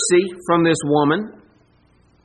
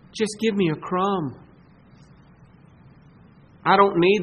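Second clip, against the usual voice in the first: lower, gentle begging; humble plea; 3 semitones lower than usual. Pretend. Woman's humble plea voiced.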